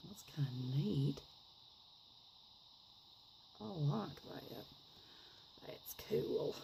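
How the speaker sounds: put-on quiet, half-serious Southern accent. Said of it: "best impression I can do of a Southern accent".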